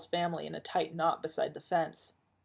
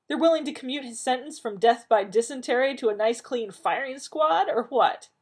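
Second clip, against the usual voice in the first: sarcastic; 7 semitones higher, 5 dB louder than usual. Acted. Rodney's sarcastic jab at John.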